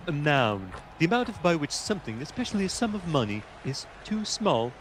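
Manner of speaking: lightly voiced pompous reader; a hint of a posh lexicon narrator; mock dictionary reading. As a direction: read it like a stuffy dictionary entry. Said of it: "That is exactly the voice I want you to commentate in".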